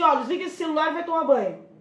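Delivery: quick, curt command to the son; bossy order. Retold or imitated. Mother bursting into son's room, mock bossy command. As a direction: snap an order as you barge in. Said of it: "se você gritar ou se você impor".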